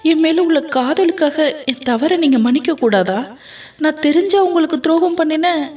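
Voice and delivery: wife's tearful lament, pitched high; wailing plea. Acted. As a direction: cry it out, begging him to understand. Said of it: "என்று கதறி அழுதாள் காவ்யா".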